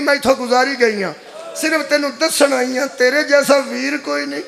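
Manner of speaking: imitating a grieving sister's lament; mourning lament. Sister apologizing at her slain brother's body, lamenting. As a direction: plead mournfully with the dead brother. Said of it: "ਦੋ ਤਿੰਨ ਵੈਣ ਕੀਤੇ ਨੇ".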